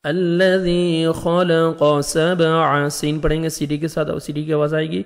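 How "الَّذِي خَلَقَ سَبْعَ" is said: slow, drawn-out tajweed recitation; a teacher modelling careful tilawat; Quran recitation. Shown as a demonstration. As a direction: recite each letter slowly and precisely. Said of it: "teacher modelling recitation".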